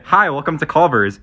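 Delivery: flat, bored drive-thru greeting; monotone voice. Retold or imitated. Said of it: "in a very monotone voice".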